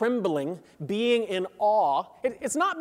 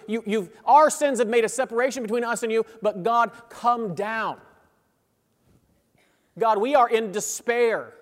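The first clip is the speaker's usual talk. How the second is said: louder, higher pleading prayer voice; crying out to God; 3 semitones higher, 4 dB louder than usual. Acted. Preacher voicing Isaiah's prayer to God, urgent loud pleading. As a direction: plead with God to come down, voice rising. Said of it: "Isaiah cries out".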